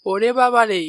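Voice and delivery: loud exclamation of amazement; astonished. Acted. Wife amazed at the husband's large day's earnings. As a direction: gasp at the pile of money.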